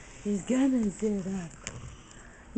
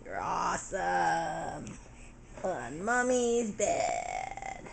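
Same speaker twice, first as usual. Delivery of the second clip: drawn-out teasing; 6 semitones lower, much slower than usual. Real, not acted.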